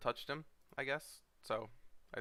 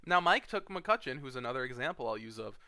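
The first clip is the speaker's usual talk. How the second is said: much higher, louder as the rant builds; worked up; 6 semitones higher, 3 dB louder than usual. Real, not acted. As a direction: pile it on, getting more worked up. Rant builds over picks.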